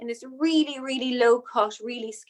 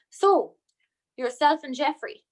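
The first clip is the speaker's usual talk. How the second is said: lad voice; 3 semitones higher than usual. Retold or imitated. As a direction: rib her like a pub lad. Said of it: "I'm doing my lad voice now".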